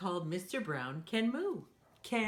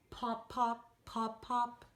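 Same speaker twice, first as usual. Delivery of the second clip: popping; 4 semitones higher, slower than usual. Acted. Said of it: "like a cork popping out".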